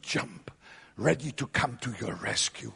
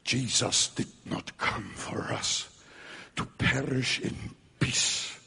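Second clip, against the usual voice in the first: whispered, slow, grave; solemn whisper; 2 semitones lower, slower than usual. Real, not acted. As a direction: hush it to the congregation. Solemn hushed conclusion.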